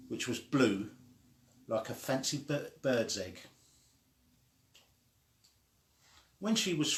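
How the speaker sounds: lively storybook read-aloud; animated children's book reading. Acted. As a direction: read it like bedtime story time for little ones.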